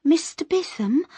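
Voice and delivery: urgent whisper. Acted. Miss Moss pushes through the crowd to Mister Bitham, a high urgent whisper. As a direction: catch his ear under the noise.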